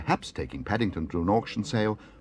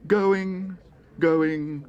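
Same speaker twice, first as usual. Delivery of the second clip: high, loud, pleading call; desperate auctioneer; 11 semitones higher, 6 dB louder, slower than usual. A narrator's reading. Auctioneer stuck on a sixpence bid, calling desperately. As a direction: beg the hall for a better bid. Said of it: "said the auctioneer desperately".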